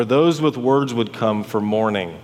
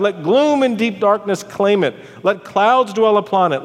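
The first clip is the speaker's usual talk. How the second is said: raised-pitch, impassioned proclamation; declaimed curse; 6 semitones higher than usual. Acted. Preacher voicing Job cursing his birthday, impassioned. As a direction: pronounce a bitter curse aloud.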